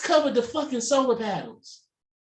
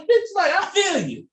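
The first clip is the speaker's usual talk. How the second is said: mock sassy agreement; 10 semitones higher than usual. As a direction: play it like a knowing, cheeky friend. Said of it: "I'm like".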